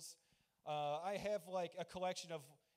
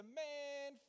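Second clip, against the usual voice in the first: mock fed-up; 8 semitones higher, much slower than usual. Elation turned to disgust with house.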